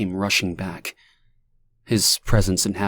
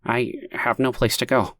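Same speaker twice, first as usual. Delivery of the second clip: higher despairing man's voice; hopeless stranger; 4 semitones higher than usual. A narrator's reading. Stranger admitting to Lonnie he has nowhere to go, hopeless. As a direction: say it with no hope left.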